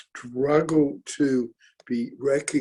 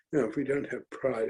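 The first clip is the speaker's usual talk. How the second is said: softer and faster, dropping back; softer, quicker repeat; 6 dB quieter, faster than usual. Acted. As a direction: let it fall away quickly. Repeats rallying line, softer.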